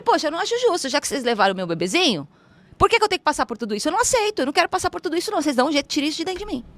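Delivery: mais agudo e rápido, indignada; protesto indignado imitado. Retold or imitated. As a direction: reclama com os seres, sem aceitar. Reza indignada contra os seres. (oração revoltada, falando rápido e aguda)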